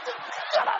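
high hushed mock whisper; wife whispering to shut him up; urgent whisper. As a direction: hiss at your husband to hush. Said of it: "Kathy go".

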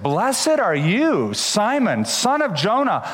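slow, weighty words of praise; solemn blessing. Acted. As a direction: bless him slowly and warmly. Jesus praises Peter.

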